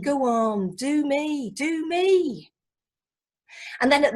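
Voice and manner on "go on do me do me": rising, pestering put-on voice; indistinct fan voice. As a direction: wheedle for an impression. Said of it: "people with indistinct voices".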